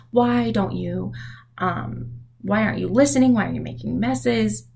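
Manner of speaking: put-on lightly exasperated parent telling kids off; mock scolding. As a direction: act out a mild telling-off. Acted scolding of her kids.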